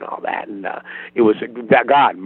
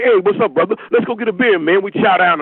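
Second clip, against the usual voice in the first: African American accent; 8 semitones higher than usual. Shown as a demonstration. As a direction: demo of his stand-up black voice. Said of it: "when I do my black voice".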